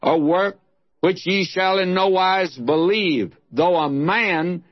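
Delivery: declaimed Bible passage, slightly lifted and sustained; solemn scripture reading. Acted. Preacher reads Paul's sermon from Acts, in declaimed scripture style. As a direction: proclaim the verses with measured phrasing.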